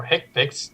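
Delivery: "hic pix", acronym read as two short words; acronym pronunciation. Shown as a demonstration. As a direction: say "hic pix" as a word, not spelled out. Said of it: "it's pronounced hic pix".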